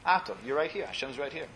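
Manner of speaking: soft and close, fading to almost nothing on Hashem's right here; hushed, intimate address to God. Shown as a demonstration. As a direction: speak quietly to someone right in front of you. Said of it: "in the lower voice".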